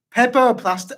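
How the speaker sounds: Jamaican attempt slipping into British; badly faked Jamaican, coming out British, near laughing; failed Jamaican accent. Shown as a demonstration. Player cracking up at his attempt, botched Jamaican accent. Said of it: "Does it say British again?".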